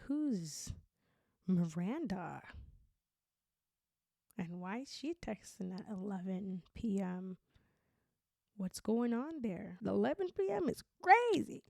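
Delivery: suspicious questioning. Acted. Acted partner questioning a late text.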